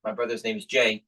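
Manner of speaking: high mock yell down to the yard; calling out. Boy calling his parents from the deck, mock yell. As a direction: call down from the deck. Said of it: "and I yell down there".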